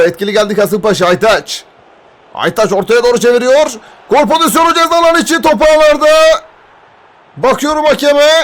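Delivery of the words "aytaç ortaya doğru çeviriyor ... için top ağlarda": screaming football commentator. Real, not acted. Goal scored, rapid call.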